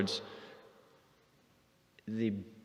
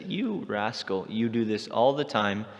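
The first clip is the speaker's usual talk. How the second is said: indignant friend scolding Krishna; retold scolding; 3 dB louder than usual. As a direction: give the rascal a proper telling-off. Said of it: "She begins to chastise Krishna".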